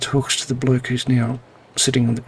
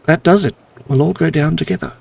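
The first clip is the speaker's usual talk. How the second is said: 1 snapping in rage; 3 semitones higher, 6 dB louder, faster than usual. Acted. Ex-employee snaps, attacks.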